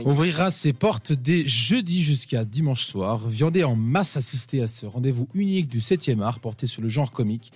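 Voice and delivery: put-on French with a light English accent; accent anglais. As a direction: read it like an English speaker in broken French. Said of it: "je le fais avec l'accent anglais". (léger accent anglais en français approximatif)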